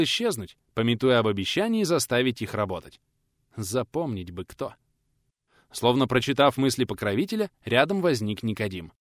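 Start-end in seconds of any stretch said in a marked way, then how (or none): none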